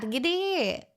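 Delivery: a light put-on Irish "G'day"; mock Irish g'day. Shown as a demonstration. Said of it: "it would sound like that".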